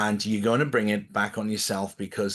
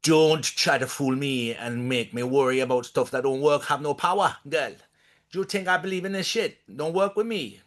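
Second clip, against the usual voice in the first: put-on mild Louisiana accent, rising higher at the end; 3 semitones higher than usual. Answering the voodoo shop woman in a mild Louisiana accent. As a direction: talk back in a light New Orleans twang. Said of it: "back to her in that accent".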